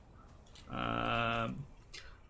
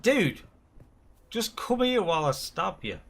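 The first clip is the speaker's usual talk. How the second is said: mock pleading; 6 semitones higher, 5 dB louder than usual. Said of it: "It's like".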